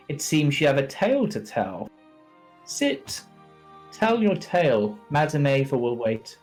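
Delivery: character voice. Acted. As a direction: speak it like a grand host.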